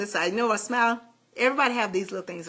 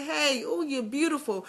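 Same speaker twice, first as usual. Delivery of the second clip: tender self-compliment; 4 semitones higher, 7 dB quieter than usual. Retold or imitated.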